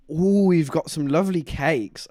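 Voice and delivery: slow, lightly hammed-up cooing old lady; drawn-out mock flirt. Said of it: "she was like".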